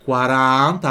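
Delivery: "quaranta" with a long open A. Shown as a demonstration. Teacher modelling the number for students, open A. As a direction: stretch the stressed A in "quaranta", wide open. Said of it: "abre o A".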